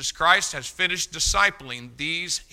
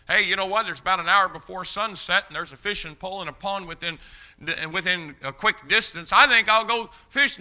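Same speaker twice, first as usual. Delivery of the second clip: breezy casual aside; 3 semitones higher than usual. Retold or imitated. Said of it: "like me and you in the midst of a busy week saying".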